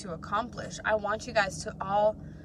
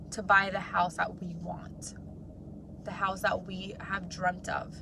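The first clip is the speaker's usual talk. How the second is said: voice catching with grief; 4 semitones lower, 4 dB quieter than usual. Real, not acted. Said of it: "I'm a little emotional apparently".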